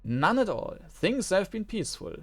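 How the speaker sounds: high, hurried denial, covering up; evasive merchant. Acted. Merchant hiding rumors from the envoy, nervously evasive. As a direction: dodge the question too quickly.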